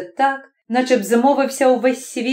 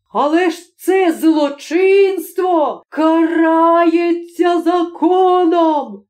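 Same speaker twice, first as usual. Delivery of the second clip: slow, higher, louder insistence; insisting shout; 7 semitones higher, 3 dB louder, much slower than usual. Acted. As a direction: hammer the law at her. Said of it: "казав прокурор".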